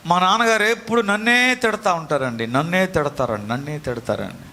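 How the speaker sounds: put-on a child's whiny repeated complaint, fading into a mutter; whiny complaining child. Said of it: "చాలామంది అర్థం చేసుకోరు".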